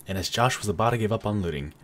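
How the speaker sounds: measured storyteller narration, dropping low at the end; mock narrator. Player narrating himself looting, mock narrator. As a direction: narrate your own game like a storybook.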